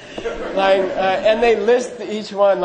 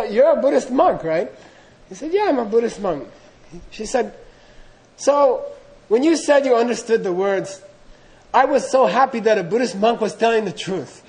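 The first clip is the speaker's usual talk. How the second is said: a hint of a high old woman; a touch of the old hag explaining to the monk; lightly voiced old hag; 4 semitones higher than usual.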